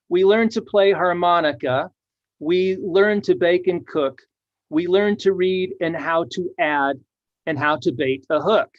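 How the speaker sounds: sing-song reading of the rhyme; rhythmic verse reading. Shown as a demonstration. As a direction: read it with a lilting rhyme beat. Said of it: "You see that there?".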